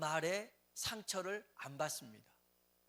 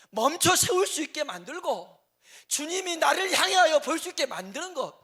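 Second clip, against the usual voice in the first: much higher and louder, at full force; preaching climax; 10 semitones higher, 13 dB louder than usual. Real, not acted. Preacher cries out to the congregation at the climax. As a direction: drive the point home with a shout.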